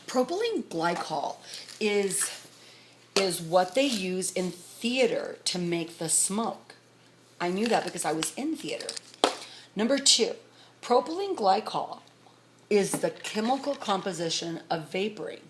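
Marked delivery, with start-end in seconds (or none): 0.1-1.4 each syllable of Propylene glycol drawn out slowly and high; slow emphatic. Real, not acted. Spelling out the shocking ingredient. 10.8-12.0 each syllable of Propylene glycol drawn out slowly and high; slow emphatic. Real, not acted. Repeating the ingredient for emphasis.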